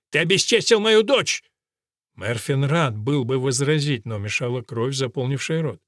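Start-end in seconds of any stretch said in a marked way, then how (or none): 0.1-1.4 выше и громче, с яростью; обвинить в гневе; гневный крик. A narrator's reading. Разъярённый отец обвиняет. (разгневанный отец кричит на юношу)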